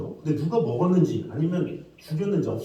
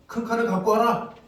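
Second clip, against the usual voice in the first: raised, commanding king voice; king's command; 7 semitones higher, 3 dB louder than usual. Retold or imitated. King ordering servants to fetch a sword, raised royal command. Solomon commands in retold story.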